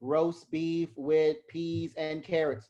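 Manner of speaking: a mildly flat, bored town crier; monotone herald. Shown as a demonstration. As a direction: read it out with no rise and fall. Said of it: "put some rise and fall in your voice".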